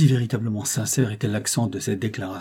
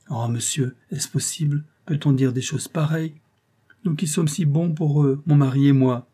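lightly voiced plump concierge, higher and protesting; indignant concierge; 5 semitones higher, 3 dB louder than usual. Concierge protests to the old clerk, mildly shocked. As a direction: protest your innocence like a flustered doorkeeper.

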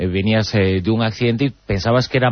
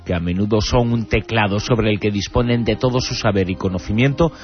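dramatic announcer read. Acted. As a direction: build suspense like a radio promo. Dramatic radio intro over music.

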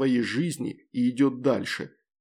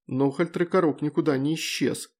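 ordinary delivery, nothing marked

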